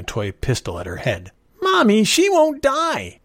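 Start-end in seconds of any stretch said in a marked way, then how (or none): 1.6-3.2 put-on very high, loud, drawn-out child's complaint; yelling little boy. A narrator's reading. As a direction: yell to Mommy like a frustrated seven-year-old. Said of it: "he yelled".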